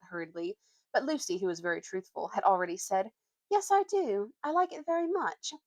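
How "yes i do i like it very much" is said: put-on raised, earnest girl's voice; Lucy's voice. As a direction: answer brightly like a truthful girl. Lucy voiced by reader.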